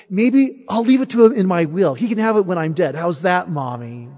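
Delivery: a hint of a boy putting off his mother; stalling child. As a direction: stall for time, growing bolder.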